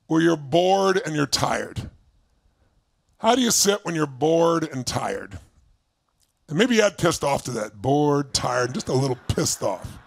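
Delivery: low, slow bored voice; bored and tired. Shown as a demonstration. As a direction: sag into boredom as you speak. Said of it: "Put yourself in a state".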